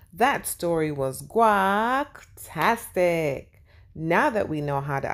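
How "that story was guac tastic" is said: playful catchphrase. Acted. Host signature catchphrase.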